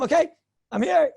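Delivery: panting arrival, loud and high; out of breath. Retold or imitated. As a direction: gasp it out after running. Arrives huffing and puffing.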